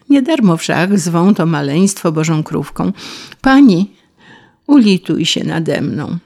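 a touch of a weak grasshopper's hope; hopeful grasshopper. Acted. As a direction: beg the ladybird for pity. Grasshopper spots the ladybird.

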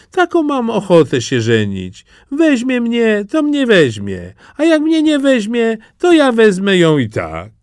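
put-on high, eager country-boy voice; a naive lad dead set on a bride; eager simpleton Jaś.

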